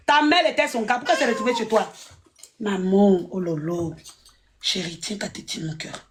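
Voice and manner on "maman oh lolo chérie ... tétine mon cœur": put-on low, soft baby talk to an infant; cooing mother voice. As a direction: coo like a mother soothing a baby.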